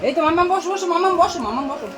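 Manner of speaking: high, loud coaxing. Real, not acted. Parent getting the child to sit and eat, high insistent coaxing.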